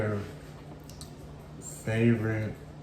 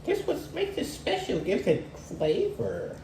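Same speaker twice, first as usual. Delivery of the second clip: white people voice; 4 dB quieter than usual. Retold or imitated. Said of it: "you know how white people be".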